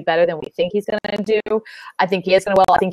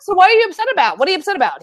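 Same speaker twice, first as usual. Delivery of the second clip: exasperated raised voice; 10 semitones higher, 3 dB louder, much faster than usual. Real, not acted. Heated argument with atheist panelist.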